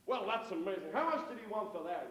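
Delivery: mock-American tourist, impressed; American accent. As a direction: marvel in a put-on American accent. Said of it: "that's my American accent".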